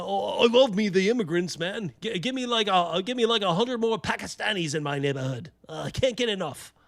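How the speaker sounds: a hint of a mocking gamer voice; mock fruity UK gamer. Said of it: "Little fruity little guys who are probably like".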